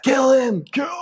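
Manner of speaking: put-on drunk dad yelling. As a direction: scream at the fighter like a drunk dad. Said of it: "Or I'd throw a dad".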